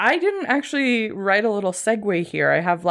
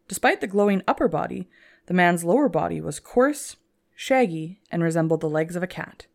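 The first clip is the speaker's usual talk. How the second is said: dramatic story narration. Acted. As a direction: read it like a spooky tale. Teaser read as dramatic story.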